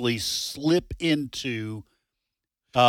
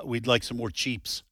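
put-on lightly slipped-in Spanish accent, "chips" as "Cheeps"; mock Spanish accent; 2 semitones lower, 6 dB quieter than usual. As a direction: order casually with a touch of Spanish accent. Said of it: "in an accent".

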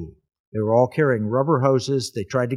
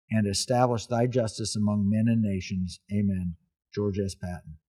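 prayer reading. Acted. Reads the prayer aloud.

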